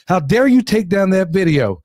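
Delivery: emphatic read-out of an irate email; mildly hammed-up outrage; mock indignation. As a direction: imitate an offended viewer. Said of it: "these people were hot".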